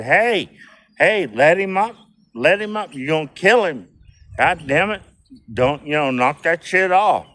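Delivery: yelling at the big guy to let him up; retold yell. Retold shout telling the big guy to let his victim up. Yelling at man choking another.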